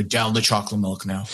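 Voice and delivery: a hint of a gruff father; deep rugged voice. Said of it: "deep voice with the baby".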